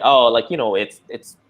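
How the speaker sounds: lightly imitated fumbling, repeating words; mock stammering. Coworker asked why they did the accent, lightly stammering. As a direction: stumble over the excuse like someone caught out. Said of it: "they started doing the stammering".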